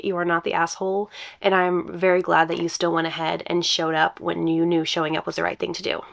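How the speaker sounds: gravelly from allergies; rough, failing voice; hoarse voice. Real, not acted. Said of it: "I sound kind of gravelly today".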